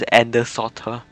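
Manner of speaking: "Anders'" said as "Enders"; mispronounced name. Shown as a demonstration. Streamer owning up to misreading a game name, mispronounced. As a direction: say "Anders'" with its first vowel as in "end". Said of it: "I kept pronouncing it as".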